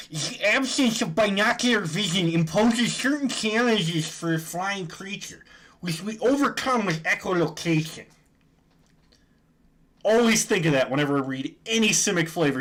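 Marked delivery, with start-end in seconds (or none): 0.1-8.0 higher, nasal know-it-all nerd. Retold or imitated. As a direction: read it like a stereotypical nerd. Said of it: "the stereotypical nerd voice".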